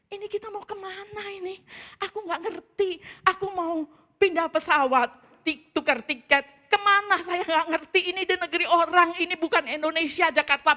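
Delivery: high, loud, panicked outburst; acted-out panic. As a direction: build from anxious wail to shouting desperation. Acting out her panic at the airport.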